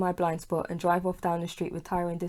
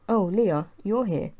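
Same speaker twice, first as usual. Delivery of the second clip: surprised; 2 semitones higher, 6 dB louder, slower than usual. A narrator's reading. Tyrone surprised at door.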